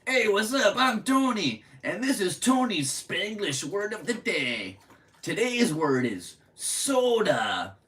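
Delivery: put-on radio Spanglish accent. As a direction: ham up the radio Spanglish word of the day. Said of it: "This is the accent they used".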